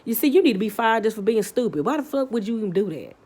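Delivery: heated, rising tirade at the officer; angry rant. Retold or imitated. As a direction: tear into the cop. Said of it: "I'm like".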